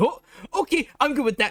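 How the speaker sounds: abrupt bright, calm tone. Storyteller voices her as she stops her tantrum, suddenly perking up. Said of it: "she stops her writhing tantrum and goes".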